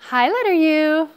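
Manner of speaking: high, loud put-on greeting; bossy storybook girl calling out; bossy character. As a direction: pitch it up, loud and pushy.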